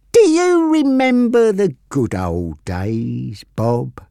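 slow, taunting and cruel; mean voice. Acted. Frankie to Bob, mean and taunting. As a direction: sneer it out nastily. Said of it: "he said in a mean voice".

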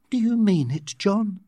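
hopeful, mildly excited lift in pitch. A narrator's reading. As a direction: ask with rising excitement. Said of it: "asked excitedly".

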